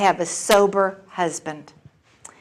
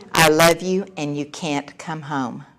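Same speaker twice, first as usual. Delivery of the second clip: peaceful firmness; 5 semitones lower than usual. Retold or imitated. Mother telling daughter on the phone, calmly firm. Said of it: "I was as peaceful as I've ever been".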